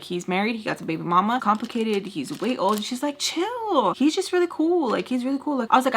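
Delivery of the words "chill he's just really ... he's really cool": high-pitched mock friend voice; airy, high imitation; dismissive friend. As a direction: imitate her brushing it off, pitched way up. Friend brushes off her objections.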